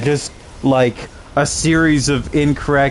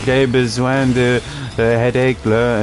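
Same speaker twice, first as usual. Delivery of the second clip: mock French. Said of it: "he's like".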